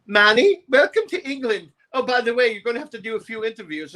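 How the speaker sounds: high, gushing record-company queen voice; campy promoter. Retold or imitated. Promo man greeting the jet-lagged singer, high and gushing.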